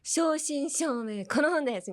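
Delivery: 正真正銘 pitched high and insistent; high, forceful stress on 正真正銘; emphatic 正真正銘. Shown as a demonstration. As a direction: punch 正真正銘, then この本です. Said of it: "これ強調したい時に".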